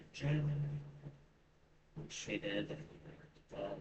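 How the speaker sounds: normal talking voice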